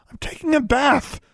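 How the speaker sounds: sharp, high, indignant protest; high indignant cry. A narrator's reading. Girl protesting to the elf mid-bath, high and indignant. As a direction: squeal it out, embarrassed. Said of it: "she hissed".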